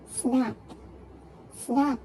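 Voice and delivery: "snap" as one firm beat; single syllable. Shown as a demonstration. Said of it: "single syllable".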